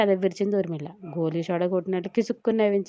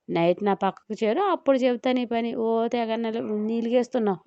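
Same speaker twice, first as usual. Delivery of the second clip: a touch of a wife's huff; angry; 2 semitones higher than usual. Acted. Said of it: "కోపంగా అంటూ వెళ్ళింది చైత్ర". (కొంచెం కోపంగా)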